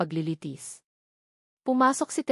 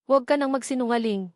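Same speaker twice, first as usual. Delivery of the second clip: raised voice; 4 semitones higher than usual. A narrator's reading. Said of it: "Ang boses ni Marco ay biglang tumaas".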